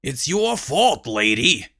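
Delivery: unfazed. Acted. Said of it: "didn't look fazed at all".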